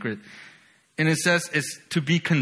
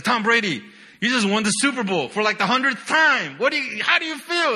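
higher, eager interviewer voice rising to a high question; mock sports reporter; 6 semitones higher, 3 dB louder than usual. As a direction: play a hyped reporter grabbing the champion. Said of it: "It's like".

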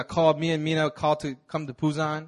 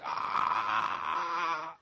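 mild cry; 6 dB quieter than usual. Retold or imitated. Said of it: "Everybody said I was screaming".

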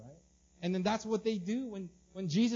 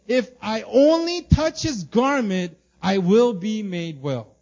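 slow fervent hope; 3 semitones higher, 13 dB louder, slower than usual. Acted. Reading the woman's inner hope.

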